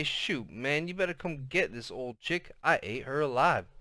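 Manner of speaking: soft and low out of the corner of the mouth, lightly voiced; cool, low talk. Older brother bragging on the phone, low and cool. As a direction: lay it back, cool and quiet. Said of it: "he'd talk kinda cool and low out of the corner of his mouth".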